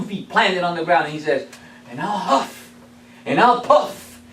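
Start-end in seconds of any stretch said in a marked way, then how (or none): 1.9-4.2 building to a loud, high threat by the end; each line bigger until the house blows; wolf threat. Acted.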